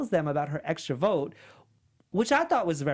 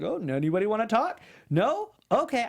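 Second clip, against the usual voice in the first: mock-innocent question, pitched up on the answers; sarcastic imitation; 3 semitones higher than usual. Podcaster mimicking a castaway nobody talks to, sarcastic. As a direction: imitate someone being sarcastic, lifting the last words. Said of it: "he does that whole sarcastic thing".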